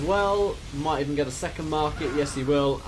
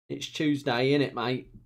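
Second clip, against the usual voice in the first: put-on Cockney accent. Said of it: "I can actually do Cockney accent".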